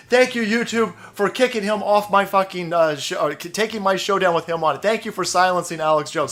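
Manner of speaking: grovel in a squeaky begging voice; mocking grateful creator. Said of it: "you're gonna come out and say".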